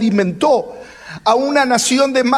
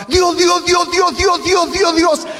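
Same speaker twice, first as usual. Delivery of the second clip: shouting to God; 9 semitones higher, slower than usual. Retold or imitated. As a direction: yell his name over the crowd to be heard first. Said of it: "lo estaba haciendo muy alto".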